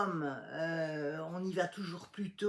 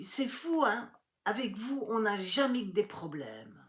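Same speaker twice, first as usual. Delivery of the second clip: mock exasperation, much higher pitch; higher, mocking snipe; exasperated secretary; 4 semitones higher, 4 dB louder than usual. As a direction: imitate the secretary's scornful complaint. Secretary voiced in retold story.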